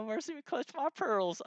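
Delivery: hammed-up Southern Belle in falsetto. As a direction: draw it out like a scandalized Southern Belle. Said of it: "do it in the Southern Belle voice".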